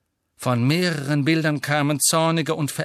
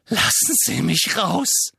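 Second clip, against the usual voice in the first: louder, slow, rising demand; Harry shakily demands to be let out, loud; 7 semitones higher, 5 dB louder than usual. A narrator's reading. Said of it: "sagte er. Er zitterte".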